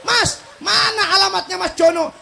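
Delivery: high-pitched Javanese asker; Javanese accent. Acted. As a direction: ask directions with Javanese intonation. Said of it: "dengerin tuh orang Jawa". (logat Jawa bertanya alamat)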